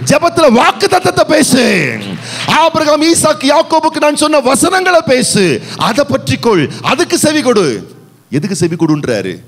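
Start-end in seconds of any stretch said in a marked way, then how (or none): 0.1-7.7 voice of God. Acted. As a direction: proclaim it as God speaking. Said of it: "அப்ப கர்த்தர் சொல்றாரு". (கர்த்தரின் குரலில் கட்டளையிடும் தொனி)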